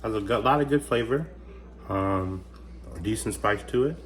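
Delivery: chewing while talking; mouth full. Real, not acted. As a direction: talk through a mouthful of food. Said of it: "Sorry if you hear me chewing".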